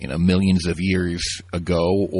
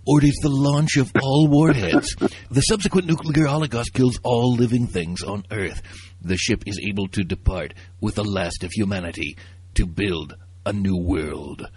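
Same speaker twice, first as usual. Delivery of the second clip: movie trailer voice. Pretend. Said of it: "I'm gonna get my best descriptive movie trailer, uh, voice".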